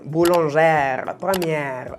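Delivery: "boulangère", "première" slowly stretched on a wide eh; grave E. Shown as a demonstration. Teacher gives examples to students, long grave E. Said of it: "o puede ser grave".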